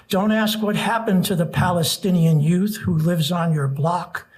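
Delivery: earnest rhythmic poem recital; nervous open mic poet. Acted. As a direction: build the refrain with urgency. Reads protest poem aloud.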